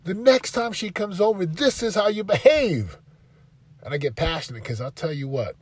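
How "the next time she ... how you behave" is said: firm instruction. Retold or imitated. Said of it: "I told my son".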